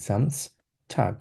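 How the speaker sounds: slow জামস্টাগ with a buzzing z at the start; z sound in Samstag. Shown as a demonstration. Teacher modelling the German Samstag, slow and careful. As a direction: draw out জামস্টাগ, voiced z first. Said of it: "এইভাবেই জার্মানরা আসলে উচ্চারণ করে থাকে".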